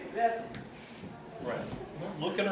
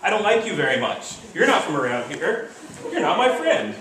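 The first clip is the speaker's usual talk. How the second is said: mock shouting; 4 semitones higher, 4 dB louder than usual. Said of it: "They're, they're screaming back and forth".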